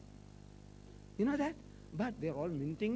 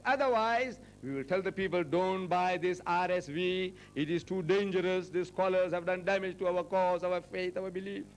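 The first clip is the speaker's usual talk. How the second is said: mock protesters. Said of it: "they protested that this thing should be put back".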